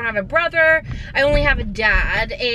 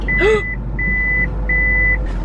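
sharp high gasp of shock; startled gasp. Real, not acted. A sudden gasp at finding glass on the seat. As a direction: gasp as if something nearly went wrong.

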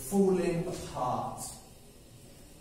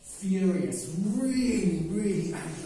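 angry; 4 semitones higher, 3 dB louder than usual. Acted. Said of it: "he was furious".

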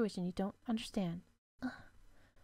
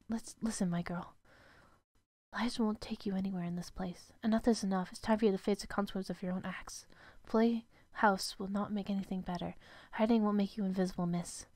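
a lower, scolding housekeeper voice; stern maid; 5 semitones lower, 3 dB quieter than usual. Acted. Servant scolding the lost girl, in a lower stern voice.

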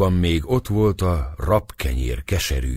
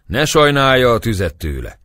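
higher, louder shriek; shrieking back; 7 semitones higher, 7 dB louder than usual. A narrator's reading. A woman shrieking back to the priest, loud. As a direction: screech it back. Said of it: "rikoltott vissza egy asszony is".

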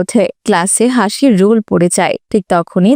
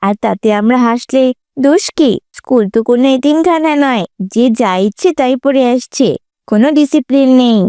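scornful schoolgirl; 3 semitones higher than usual. Acted.

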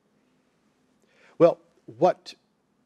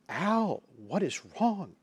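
softly retold worried question, pitched high; retold concern; 6 semitones higher, 4 dB quieter than usual. Calling back a crying brother, retold concern.

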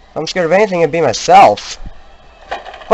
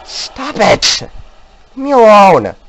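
frightened yelling; 4 semitones higher than usual. Real, not acted. Yelling at ghosts.

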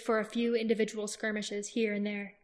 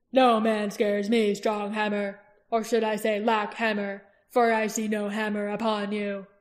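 mocking warlord; 5 dB louder than usual. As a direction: sneer at the challenger. Barst mocks Roran.

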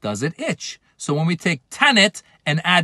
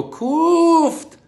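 high sharp snap; snapping shut up; 12 semitones higher than usual. Pretend. Telling someone stupid online to shut up, high snap. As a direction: bite it off to silence someone. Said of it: "you go".

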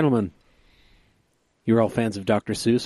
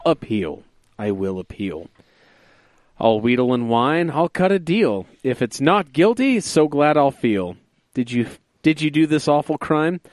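radio announcer daddy voice. Acted. Reading his Seuss-style O J poem to his podcast friends, a hint of a radio announcer. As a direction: read the rhyme like a hint of a smooth radio host. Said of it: "in my radio announcer daddy voice".

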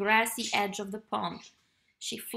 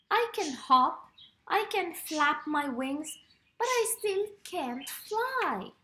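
little bird voice; 5 semitones higher than usual. Acted. Baby Bluebird frustrated at not flying.

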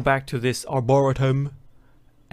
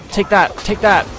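louder battle cry; triumphant yell; 5 semitones higher, 7 dB louder than usual. Real, not acted. Gamer smacks the robot, triumphant shout. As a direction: swing and shout it. Hitting enemy in game.

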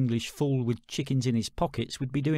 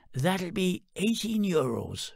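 chicken lady; 6 semitones higher, slower than usual. Acted. Chicken lady names price.

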